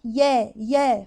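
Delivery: slow "يا" with an open a; open yaa. Shown as a demonstration. Teacher isolates the syllable, slow open vowel. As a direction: stretch "يا" on a clear fatha. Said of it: "فتحة يا".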